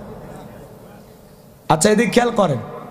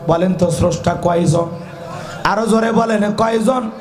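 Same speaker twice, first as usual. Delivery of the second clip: preaching. Acted. Preaching to a crowd.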